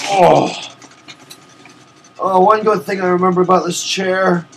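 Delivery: strained while stretching. Real, not acted. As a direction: talk mid-stretch. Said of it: "I need to stretch".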